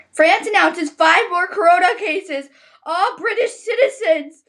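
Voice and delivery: reading with rising panic; distressed reading. Real, not acted. Reading virus headlines, upset, ends in a gasp. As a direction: push through the news, fretting.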